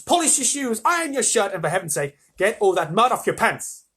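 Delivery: put-on excited old man. Grandpa Joe hurrying Charlie along, high and loud. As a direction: rattle off the list in a fever. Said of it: "shouted Grandpa Joe".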